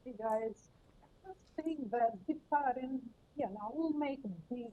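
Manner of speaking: muffled, far from the microphone. Real, not acted. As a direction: speak muffled, away from the mic. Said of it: "you're a little bit muffled".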